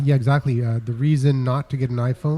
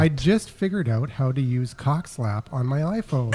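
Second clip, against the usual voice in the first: giggling, slower toward the end; laughing while reading. Real, not acted. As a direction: read it while cracking up.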